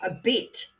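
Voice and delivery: "bit" the Australian way, drawn to a "beet" sound; Australian accent. Shown as a demonstration. Correcting a New Zealand attempt, "bit" in Australian accent. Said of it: "That's Australian".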